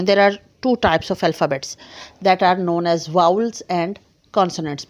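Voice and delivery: very slow, word by word; careful teacher dictation; dictation pace. Shown as a demonstration. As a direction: dictate slowly for notes. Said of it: "dictating a definition".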